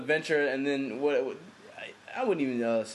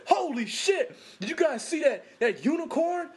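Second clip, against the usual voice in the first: higher, amazed tripping shout; mock excited; 11 semitones higher than usual. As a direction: gush about the unicorn like a stoned guy. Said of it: "When he did that swerve and said".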